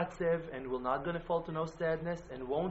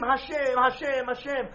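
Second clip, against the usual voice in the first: a raised, fervent call to Hashem, each name falling; crying out; 8 semitones higher, 5 dB louder than usual. Shown as a demonstration. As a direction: call out to God three times with longing. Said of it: "And to scream".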